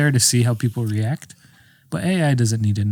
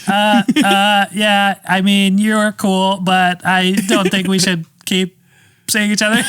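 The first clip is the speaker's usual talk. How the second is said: slow, raised mock AI breakup; robot voice; 5 semitones higher, slower than usual. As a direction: deliver the breakup slowly, like a machine.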